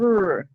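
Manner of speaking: "r" said alone as a bare sound; isolated sound. Shown as a demonstration. Teacher sounding out the first sound of ro. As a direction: give just the sound of "r", nothing else. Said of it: "First sound".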